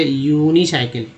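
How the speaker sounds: "यूनिसाइकिल" starting yoo-nee; uni as "yoo-nee". Shown as a demonstration. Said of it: "यूएनआई को यूनी बोलते हैं". ("यूनिसाइकिल" में "यूनी" की ध्वनि)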